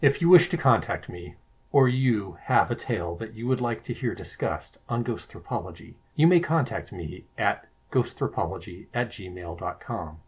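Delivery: measured, formal announcer sign-off; official podcast voice. Real, not acted. Guest giving listeners his contact email, official podcast voice. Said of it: "I like your official podcast voice".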